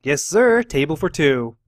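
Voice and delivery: breezy waitress welcoming guests; carefree waitress voice. Acted. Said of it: "in her usual carefree voice".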